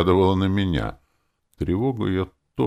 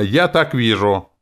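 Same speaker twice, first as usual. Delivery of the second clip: loud, higher, slow outburst; shouted; 6 semitones higher, 7 dB louder than usual. A narrator's reading. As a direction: yell it defiantly. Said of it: "выкрикнула она". (громкий упрямый выкрик)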